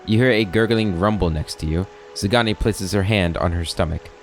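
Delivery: measured storybook reading voice; story narration. A narrator's reading. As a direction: read it like a narrator setting the scene. Reads game narration aloud.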